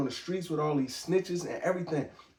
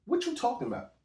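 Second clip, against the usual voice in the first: cutting in higher, scoffing at him; mock interruption; 7 semitones higher than usual. Speaker cutting off a sucker mid-talk, scoffing interruption. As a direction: shut down someone talking out of turn. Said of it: "I'd be like".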